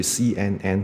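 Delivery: "C N N" as see-un-un; wrong letter names. Shown as a demonstration. Teacher mimicking the mistake, "C N N" as see-un-un. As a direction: spell "C N N" with each N like 恩. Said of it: "不是C N N".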